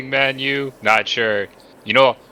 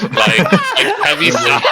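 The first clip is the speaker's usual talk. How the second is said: high, laughing through the words; words dissolve into giggles; 3 dB louder, slower than usual. Real, not acted. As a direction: laugh it out, much higher.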